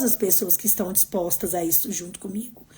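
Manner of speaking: a soft unvoiced whisper, close to the mic. Real, not acted. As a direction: let the line drop to a heartfelt whisper. Heartfelt aside to her audience. (sussurro sincero)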